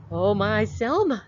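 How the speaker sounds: put-on high, sweet old granny calling. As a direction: coo like a loving grandmother. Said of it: "said Granny".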